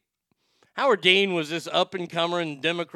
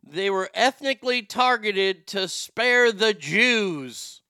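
imitating RFK Junior's halting voice; 4 semitones higher, 5 dB louder, slower than usual. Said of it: "I don't know why he's talking like that".

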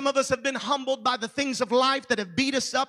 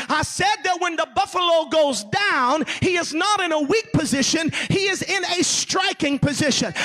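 put-on higher, forceful African-accented preaching; strong African accent; 4 semitones higher, 4 dB louder than usual. Preacher repeating the buffalo's point to church, forceful African accent. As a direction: hammer it home as an imitated Zulu preacher, African accent. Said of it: "with that strong African accent".

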